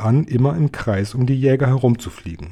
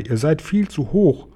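higher-pitched motherly warning; alarmed mother; 5 semitones higher than usual. A narrator's reading. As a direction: warn the children, pitch lifted. Mother warns children flying too high.

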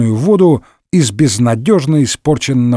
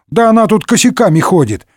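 higher, insistent retort; indignant; 7 semitones higher than usual. A narrator's reading. Athos defends his fishing moat, indignant. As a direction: protest that it is obviously so. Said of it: "в свою очередь возмутился Атос".

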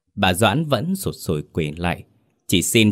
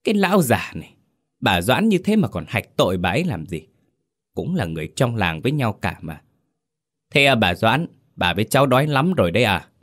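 scolding wife; 3 semitones higher, faster than usual. Acted. Chief's wife scolds her husband in front of villagers, mildly. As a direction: snap at the old husband, then turn sweet. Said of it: "Mụ Linh xua tay mắng".

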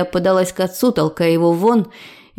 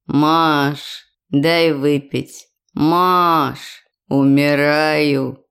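a frail, dragging plea from a hungover father, slow; lightly voiced weak old drunk begging; a weak voice calling from far off; weak father's voice; 5 semitones lower, much slower than usual. A narrator's reading. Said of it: "слабый голос отца".

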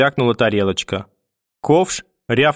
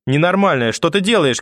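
higher, urgent protest, moderately raised; alarmed cry; 6 semitones higher than usual. A narrator's reading. Mother fleeing grandmother round the table, alarmed cry. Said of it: "крикнула мама".

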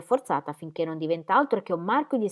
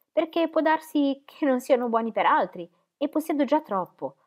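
earnest heroine; 4 semitones higher, 6 dB louder than usual. A narrator's reading. Dorotea pleads about her faith.

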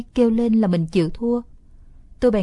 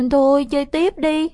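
pleading little sister; 6 semitones higher, 4 dB louder than usual. Acted. Scared sister begs.

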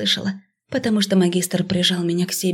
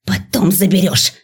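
hissed; 3 dB louder than usual. A narrator's reading. Teacher hissing at the student. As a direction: hiss it out through the teeth. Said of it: "прошипела она".

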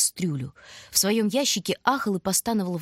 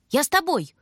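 high, louder eager plea; tagging along; 8 semitones higher, 4 dB louder than usual. A narrator's reading. Little brother begs to go too: high, louder, eager. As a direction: beg to come along. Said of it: "увязался Бобка".

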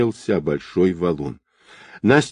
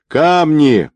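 high, louder alarm call; urgent warning shout; 8 semitones higher, 5 dB louder than usual. A narrator's reading. Boatswain warns the swimmer of rocks, urgent high shout. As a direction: shout a warning across water.

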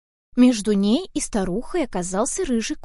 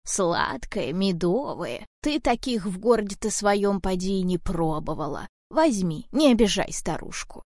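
a hint of a frail old woman pleading; 2 semitones lower than usual. Old woman offers the apple. (слегка старушечий голос, медленно)

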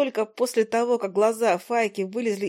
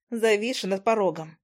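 ordinary delivery

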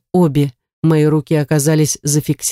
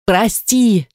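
strained yell; 5 semitones higher than usual. Acted. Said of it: "надрывисто проорала я".

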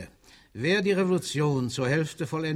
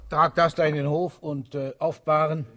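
orders; 3 semitones higher, 7 dB louder than usual. Acted. Barking orders at a subordinate.

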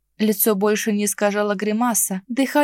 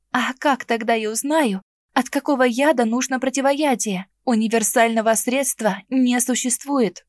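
язвительно; 3 semitones higher than usual. Acted. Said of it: "язвительно спросила".

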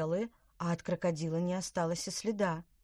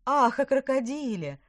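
high loud exclamation; exclaiming; 8 semitones higher, 9 dB louder than usual. Acted. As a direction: cry it out, suddenly realising. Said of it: "воскликнула яблоневая ведьма".

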